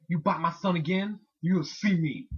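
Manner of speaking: mom lightly imitated in Black American English; threatening Black American accent. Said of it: "talks black when she wants to be threatening".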